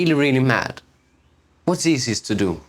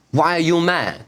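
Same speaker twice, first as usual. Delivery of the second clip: raised, mildly annoyed retort; a mock irritated why-are-you-mad; irritated question; 4 semitones higher than usual. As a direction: replay the snippy reply, a bit higher. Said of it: "what I did was like".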